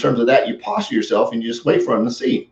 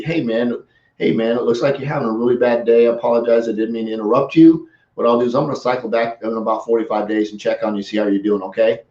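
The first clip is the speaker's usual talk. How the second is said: gentle, understanding reply to an upset person; empathetic; 2 semitones lower than usual. Shown as a demonstration. Seller calming an angry prospect, gentle and empathetic. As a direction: soften and sound truly sorry. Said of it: "It's an empathetic way".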